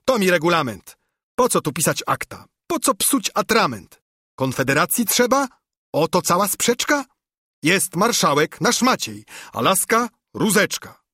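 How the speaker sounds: high eager little noble; a touch of excited chatter; mildly high eager voice; Brzytewka. Acted. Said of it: "pisnął Brzytwa".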